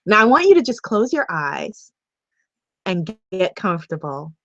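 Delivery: unhurried, settling guide voice; guided visualization. Real, not acted. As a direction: ease them into calm, pausing between phrases.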